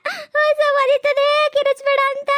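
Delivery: high, loud, drawn-out yell; angry shout. Acted. Kicked husband yells at his wife for shouting near the cow, high and loud. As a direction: yell it out slowly in pained anger. Scolding shout after the kick.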